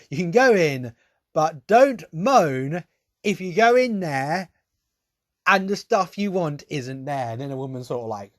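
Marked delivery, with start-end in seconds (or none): 0.1-7.3 louder, curt mock rudeness, slowing on don't moan; rude brush-off. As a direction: imitate the manageress snapping rudely at the crowd. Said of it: "she didn't say it like, quite like this".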